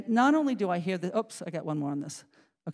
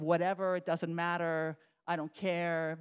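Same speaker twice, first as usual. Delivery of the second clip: imitating a slow, dismissive shrug; slow, softer mock indifference; defensive, whatever attitude; 4 dB quieter, slower than usual. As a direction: act like you don't care, drawing it out. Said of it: "a much more defensive, a sort of".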